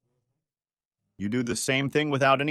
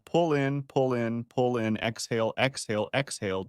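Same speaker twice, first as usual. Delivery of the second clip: coaching count-out. Shown as a demonstration. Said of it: "you pull in your stomach".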